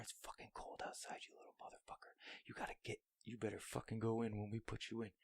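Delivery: breathy cursing whisper. Retold or imitated. Swearing under the breath at a stubborn part. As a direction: hiss it close to the floor. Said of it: "I'm whispering".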